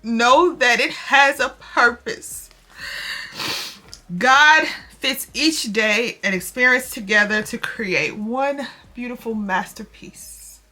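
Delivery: earnest read-aloud of a devotional, slowing at the end. Real, not acted. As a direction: read the text like a gentle sermon. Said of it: "I'm gonna read it really quickly to y'all".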